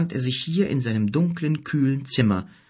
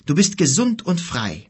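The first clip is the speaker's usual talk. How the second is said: higher, louder, bursting with happiness; overjoyed; 6 semitones higher, 3 dB louder than usual. A narrator's reading. Kim hugging his sister, overjoyed and loud. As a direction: let the relief spill over.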